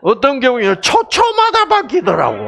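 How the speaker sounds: high, laughing overstatement; laughing exaggeration. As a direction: tease with a laugh. Exaggerating the wife's mood swings. (웃으며 과장하듯)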